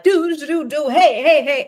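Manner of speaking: high, loud, carefree humming then calls of hey; doing Tony Danza strolling alone, humming and calling hey; imitating Tony Danza. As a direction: hum along cheerfully and greet people. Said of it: "he's always like".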